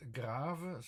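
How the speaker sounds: grave with a long open "ah"; French grave, "ah" held long; French pronunciation. Shown as a demonstration. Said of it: "That's for the French word".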